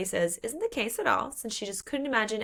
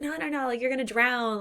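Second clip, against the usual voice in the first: alarmed refusal; 5 semitones higher than usual. Acted. Axel refuses, warning she will drown.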